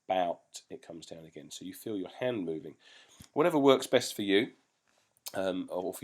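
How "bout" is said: bout as the second syllable; syllable demo. Shown as a demonstration. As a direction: land the second beat on bout. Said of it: "and then".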